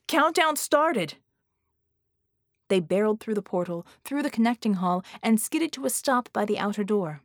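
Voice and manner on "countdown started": slow, high, drawn-out warning cry; urgent shout. Acted. Red warning his team the bomb is live. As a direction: call it out as the alarm rings. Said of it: "Red shouted".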